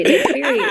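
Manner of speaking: daiquiri said as spelled, "dye-queery"; mispronounced daiquiri. Retold or imitated. Customer ordering from the lady, mispronounced daiquiri. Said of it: "I was gonna say it wrong".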